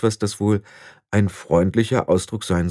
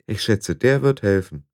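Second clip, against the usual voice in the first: weary. Acted. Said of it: "sagte Tiffany matt".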